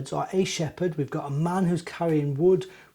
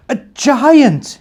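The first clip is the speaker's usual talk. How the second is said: surprised; 8 semitones higher, 13 dB louder than usual. Acted. Little bear startled.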